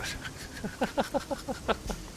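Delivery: airy high laugh with no voice; a silent wheeze of a laugh; breathless laugh. Real, not acted. Player laughing at their own pun, airy laugh.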